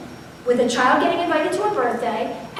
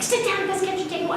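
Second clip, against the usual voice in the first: stern order; 7 semitones higher, 5 dB quieter than usual. Retold or imitated. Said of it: "I yelled at him".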